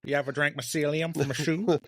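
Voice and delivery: put-on Old Greg voice.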